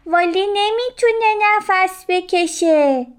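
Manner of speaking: shouting for help. A narrator's reading. Little fish shouting to the sea creatures for help. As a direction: call out to everyone, urgent. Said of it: "با فریاد گفت".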